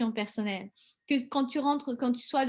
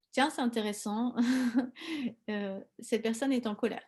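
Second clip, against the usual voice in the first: calm curiosity; 4 dB quieter than usual. Retold or imitated. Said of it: "tu vas dire".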